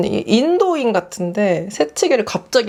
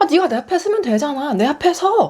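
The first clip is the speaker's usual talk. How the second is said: fast, higher insisting voice; pushy insistence; 6 semitones higher than usual. Retold or imitated. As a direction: brush it off and push, quickly. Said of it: "이런 식으로 나오길래". (빠르고 높게 우기는 말투)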